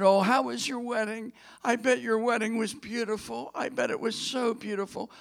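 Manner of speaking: high, gushing chatter; gushing young woman. Retold or imitated. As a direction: gush like an excited guest. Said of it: "came up to her gushing".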